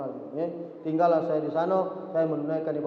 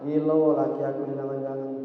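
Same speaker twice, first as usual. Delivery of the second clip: wife's inner thought; 4 semitones lower than usual. Retold or imitated. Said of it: "mengkali dalam hatinya".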